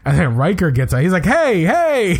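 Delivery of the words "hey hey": high-pitched mock protest; upset, protective. Captain retelling how Riker jumps in to protect his crew, upset. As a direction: call out in protective indignation, much higher. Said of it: "He gets really upset 'cause he's protective".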